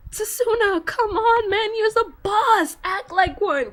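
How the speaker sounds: high, slow, pumping up the hero; hyped pep talk. Retold or imitated. Fan to Tsuna, urging him to act like the boss, hyped. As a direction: cheer him on like a coach.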